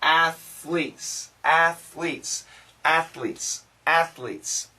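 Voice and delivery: athletes said slowly and carefully, ath-letes; careful drill of athletes. Shown as a demonstration. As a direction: repeat athletes with a clear final s. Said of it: "This is tough".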